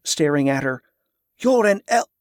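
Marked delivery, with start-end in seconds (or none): 1.4-2.1 shocked blurt. A narrator's reading. Shocked outburst cut off.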